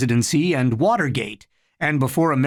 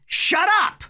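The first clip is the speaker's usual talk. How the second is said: shout. A narrator's reading. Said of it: "Harry shouted".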